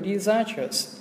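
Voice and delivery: "disastrous" with the stress on the middle syllable, zas. Shown as a demonstration. Teacher models disastrous for exam students, stress on the second syllable, zas. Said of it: "trọng âm nó sẽ vào âm zas".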